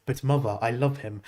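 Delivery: mock deep grown-up voice from a baby; deep adult voice. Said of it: "a deep adult voice".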